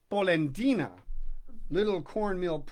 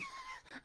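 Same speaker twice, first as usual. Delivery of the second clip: laughing; 17 dB quieter than usual. A narrator's reading.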